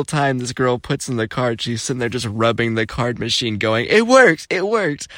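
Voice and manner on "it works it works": high-pitched mock delight; excited imitation. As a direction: mimic someone thrilled that it worked. Imitating girl thrilled by the trick.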